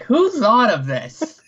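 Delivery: slow, laughing incredulous question; giggly who-does-this; laughing disbelief. Retold or imitated. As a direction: ask it through a laugh, baffled. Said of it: "I'm like".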